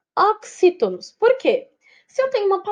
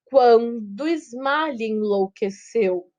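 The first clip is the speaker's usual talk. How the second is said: slow, measured scansion of the verse; syllable by syllable; much slower than usual. Shown as a demonstration. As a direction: stretch each metrical syllable out slowly. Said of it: "sílaba por sílaba".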